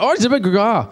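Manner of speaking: high-pitched imitation of a Scottish friend; Scottish accent. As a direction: mimic a thick, hard-to-follow Scottish accent. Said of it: "a Scottish accent".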